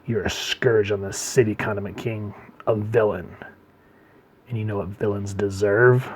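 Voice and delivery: mock-grave accusation; measured, understated condemnation; super serious. Joker lecturing Condiment King, super serious. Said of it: "this super serious face here, and he goes".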